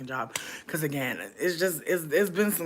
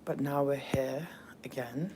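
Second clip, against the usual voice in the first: hushed, breathy-free whisper opening the stream; playful whisper to the viewers; silly whisper; 8 dB quieter than usual. Acted. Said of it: "I'm talking like this because I'm being silly".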